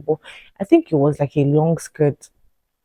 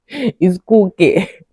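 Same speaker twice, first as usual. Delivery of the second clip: mocking repeat; 4 semitones higher, 6 dB louder, slower than usual. Mocking his answer, laughing.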